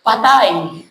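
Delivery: low, stunned deadpan; a soldier's sunk-hope mutter; dismayed groan. Retold or imitated. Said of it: "Sabi niya". (mababang boses ng pagkadismaya)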